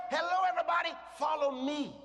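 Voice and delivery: bold, cheerful summons; confident call. Acted. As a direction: call everybody to follow you. Preacher acts out a confident greeting.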